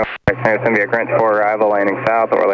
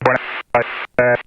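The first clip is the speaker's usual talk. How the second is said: choppy broken radio transmission; words cutting in and out over radio; radio breaking up; 3 semitones higher, slower than usual. Real, not acted. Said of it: "Broken up".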